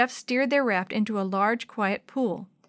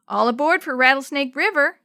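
loud conductor's call, all aboard; train conductor calling; 4 semitones higher, 7 dB louder than usual. Acted. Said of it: "He sounded like a railroad conductor".

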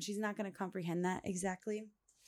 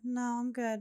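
put-on light, higher-pitched kid refusing; child's refusal; 6 semitones higher than usual. Toddler refusing the toilet to mom, lightly imitated.

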